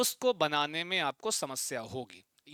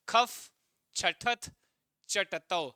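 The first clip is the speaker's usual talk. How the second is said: each chunk said apart with pauses; split into three parts; much slower than usual. Shown as a demonstration. Teacher splitting a long sutra for students. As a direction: break the line into three bits. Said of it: "तीन बार में पढ़ो".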